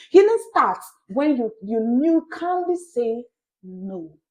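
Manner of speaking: loud, building preacher's cry on healing; preacher raising his voice to the congregation, loud; forceful preaching. Shown as a demonstration. Preaching loud and urgent to listeners. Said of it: "Mark the word calmly".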